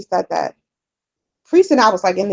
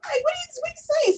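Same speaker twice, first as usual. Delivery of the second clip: high, quiet disbelief; half-laughing what are you saying; baffled and soft; 9 dB quieter, faster than usual. Retold or imitated. Reacting to mother's outburst.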